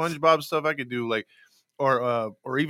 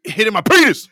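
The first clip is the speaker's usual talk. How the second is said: emphatic stutter; 7 semitones higher, 10 dB louder than usual. Retold or imitated. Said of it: "if he emphasizes something".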